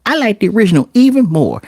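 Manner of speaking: put-on high, delighted child voice; happy kid. Kid after watching the original, high and delighted. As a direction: gush like a pleased little kid. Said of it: "be like".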